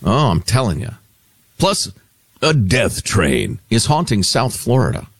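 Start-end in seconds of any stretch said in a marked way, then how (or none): 1.6-5.1 spooky, ominous teaser voice; scary voice. Acted. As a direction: tease it like a horror trailer. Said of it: "when you use that voice, it sounds very scary".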